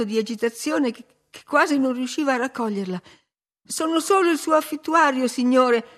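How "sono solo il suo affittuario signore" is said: high, raised-voice hasty explanation; exclaiming. A narrator's reading. Tenant identifying himself to his startled landlord, exclaiming. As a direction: call it out, pitched up and urgent.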